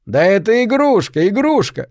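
manic high cry of игрушка, falling; gloating like a madman; wild unhinged ranting. Acted. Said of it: "Т захохотал, как безумный". (безумный торжествующий выкрик «игрушка»)

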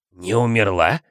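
mildly croaked question with a rising end; hoarse croak. A narrator's reading. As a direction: croak it out in disbelief, lightly. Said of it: "прохрипел Филч сквозь пальцы". (хрипло, с недоверием)

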